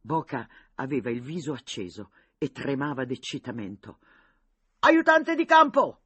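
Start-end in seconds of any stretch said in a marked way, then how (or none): 4.8-6.0 slow, high, very loud summons; shouted call. A narrator's reading. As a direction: call the aide from afar. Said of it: "gridò". (richiamo gridato, lento e fortissimo)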